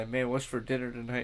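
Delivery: ordinary delivery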